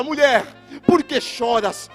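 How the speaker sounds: slow, mildly projected address to a woman; lightly voiced angelic question. Angels asking weeping Mary at the tomb, solemn questioning.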